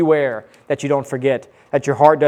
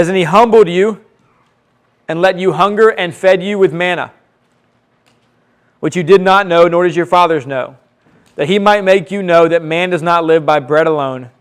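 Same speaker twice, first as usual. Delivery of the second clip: louder, emphatic Bible reading; scripture reading; 2 semitones higher, 6 dB louder than usual. Acted. Preacher reading how God fed Israel manna, emphatic reading. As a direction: proclaim the verse with force. Reads scripture aloud to congregation.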